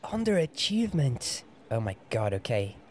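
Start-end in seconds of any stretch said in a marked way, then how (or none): 0.0-1.4 high-pitched, disbelieving question; incredulous echo. Real, not acted. Player echoing Snape's academic insult, incredulous. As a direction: throw the word back in disbelief.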